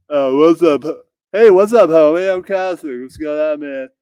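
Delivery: lightly voiced drunk bro; stoner bro. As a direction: greet like a buzzed homie. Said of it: "all N-words will be replaced with homie".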